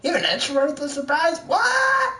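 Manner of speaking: high squeaky mock shock; mock surprise. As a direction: squeal it in fake astonishment.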